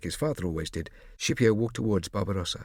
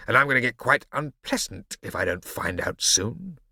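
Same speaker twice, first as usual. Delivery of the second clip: menacing villain. Acted. Barbarossa voiced, menacing.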